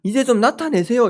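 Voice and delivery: indignant disciple pressing Jesus, rising pitch; mock complaint, pushing for an answer; demanding protest. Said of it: "이렇게 요구를 하는 것 같아요".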